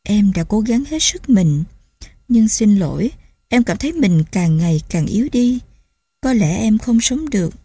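weak, breathy and faint; barely getting the words out; feeble faint voice. Acted. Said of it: "Nó thều thào nói".

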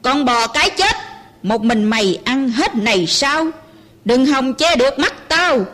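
put-on a mild roar at the old mother; soldier roaring. Soldier threatens the old mother, mild roar. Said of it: "Hắn rống hét".

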